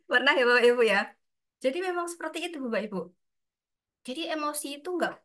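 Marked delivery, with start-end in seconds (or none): 0.1-1.0 laughing. Real, not acted. Laughing question to audience.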